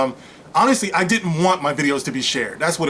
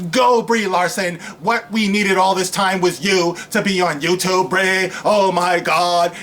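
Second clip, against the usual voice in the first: cheering fan voice; slower than usual. Retold or imitated. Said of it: "people who talk like this".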